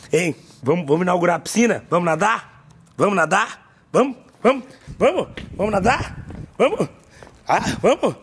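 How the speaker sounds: coaxing the dog. Real, not acted.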